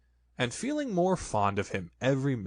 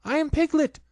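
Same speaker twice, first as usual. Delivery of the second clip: high, loud insistence on NOT; loud protest; 6 dB louder than usual. A narrator's reading. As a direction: Piglet shouts he is not Roo. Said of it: "said Piglet loudly".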